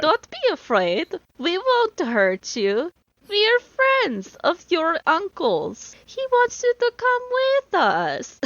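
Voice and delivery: hammed-up European accent, rising high and slow; a mock European accent to calm a scared kid; playful European accent. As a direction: play the friendly stranger in a playful European accent. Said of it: "that's what you're supposed to do".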